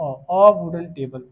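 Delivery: अ wooden table, slow, with a drawn-out अ; a not an. Shown as a demonstration. Teacher modelling the right article for students, slowly. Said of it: "एन नहीं लगेगा".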